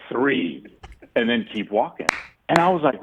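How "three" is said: low raspy one-word mutter; a hint of Ricky's rasp. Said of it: "the same raspy voice".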